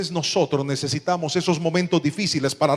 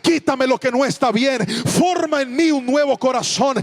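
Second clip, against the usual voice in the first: loud, driving sermon cadence, louder and higher; preaching at full force; 7 semitones higher, 7 dB louder than usual. Acted. Pastor exhorting the congregation to change, full-force preaching.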